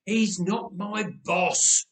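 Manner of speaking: slow weary sigh. Acted. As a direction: sigh it out, tired of repeating. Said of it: "Uncle Jay sighed".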